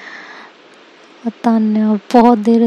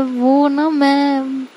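flustered stammer; 3 semitones higher, much slower than usual. Acted. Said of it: "परेशान होकर खड़ी हो जाती है".

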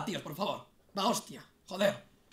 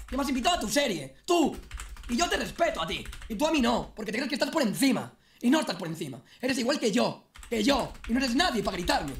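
heated reproach. Real, not acted.

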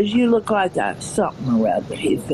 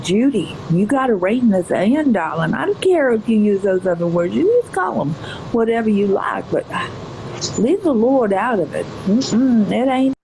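southern lady. Acted. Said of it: "she doesn't sound anything like this".

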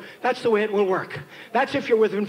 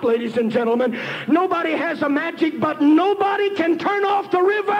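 full-force preaching; 3 semitones higher than usual. Acted. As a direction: preach with mounting urgency to the congregation.

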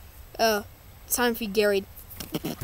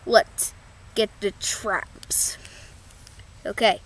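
slow secret whisper; 7 semitones lower, 10 dB quieter, slower than usual. Acted. Plotting to trap robot Krabs, slow whisper. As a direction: hush it so the robot won't hear.

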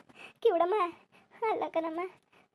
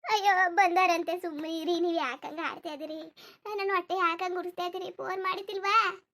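aggrieved village woman; slower than usual. Acted. Woman refusing talk of funeral arrangements today, aggrieved. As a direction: protest through the grief.

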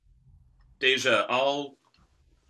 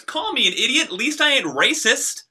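angry; 12 semitones higher than usual. Real, not acted. Quarrel, calling her racist.

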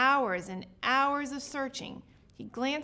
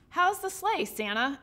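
put-on eager young reindeer; 4 semitones higher, 4 dB louder than usual. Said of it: "asked Rodney".

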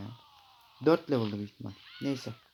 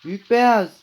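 loud, higher call across the water; 8 semitones higher, 10 dB louder than usual. Pretend. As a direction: summon the great white, playfully. Calling the great white shark.

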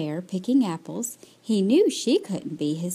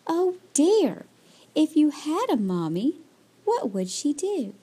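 higher-pitched, concerned storybook mother; sighed sympathy; 7 semitones higher than usual. A narrator's reading. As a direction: sigh with concern for a crying child. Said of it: "she sighed".

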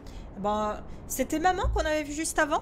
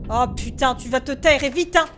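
angry snap; 2 semitones lower, 6 dB louder than usual. Real, not acted. Telling noisy thing to shut up.

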